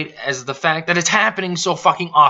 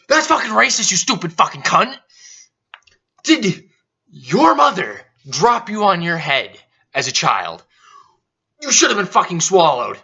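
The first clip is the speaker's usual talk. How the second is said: angry outburst; 3 semitones higher than usual. Real, not acted. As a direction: explode at them, really upset. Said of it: "I'm getting a little upset".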